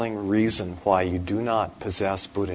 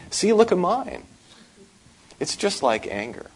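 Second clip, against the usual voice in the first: proud boast; 11 semitones higher, 4 dB louder than usual. Retold or imitated. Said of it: "psychiatrist shows his own".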